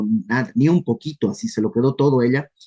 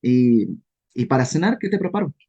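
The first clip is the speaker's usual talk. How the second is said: mock servility, dry; sarcastic. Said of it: "sarcástica".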